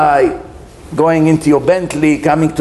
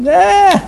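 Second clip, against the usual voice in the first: disapproving eh; 14 semitones higher, 3 dB louder than usual. Acted. Mimics disapproval of robotic prayer.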